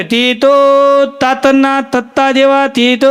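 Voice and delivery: slow, drawn-out chikoo seller's cry with a lisp; lisping vendor call. Retold or imitated. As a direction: hawk the fruit slowly, tongue-tied. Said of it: "એમ અવાજ મારે".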